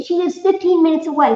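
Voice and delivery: amazed that she lives so close; excited. Acted. Excited take of chat comment.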